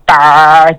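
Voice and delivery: "bar" with a hard, strongly sounded R; "bar", a hard Newfoundland R. Shown as a demonstration. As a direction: lean into the R of "bar", Newfoundland style. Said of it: "sounds like our hard R sound".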